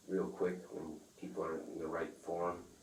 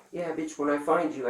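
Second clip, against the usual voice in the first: imitated threat; 10 semitones higher, 8 dB louder than usual. Imitating dealer's phone threat.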